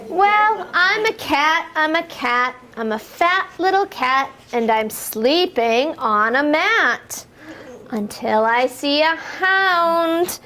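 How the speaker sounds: sing-song rhyming read-aloud for toddlers; lilting picture-book voice, building to the jump; reading to children. Acted. Teacher reading a rhyme to little kids, sing-song.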